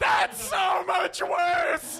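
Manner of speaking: high, long drawn-out wail; yelling. Acted. Victim reacting to the gun, slow high yell. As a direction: stretch it into a mock-horrified high yell. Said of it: "I'm yelling into the mic".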